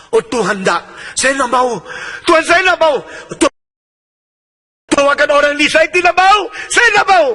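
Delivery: reluctant Ananias protesting to God; Ananias refusing. Acted. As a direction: dig in and refuse God, escalating.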